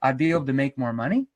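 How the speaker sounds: mildly defensive prospect justifying themselves; mock defensive, halting explanation. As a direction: stammer out reasons as if challenged. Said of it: "and they get defensive".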